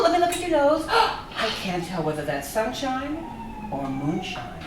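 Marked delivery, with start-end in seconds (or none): 3.7-4.5 much higher, soft sly jab; teasing punchline. Acted. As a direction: tease him about drinking. Wife teasing husband about drinking.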